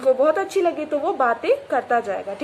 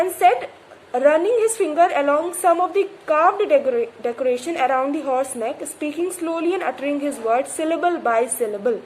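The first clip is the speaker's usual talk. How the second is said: slow, deliberate reading aloud; measured textbook reading; story reading; much slower than usual. A narrator's reading. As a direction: read the novel line carefully. Reads story text slowly.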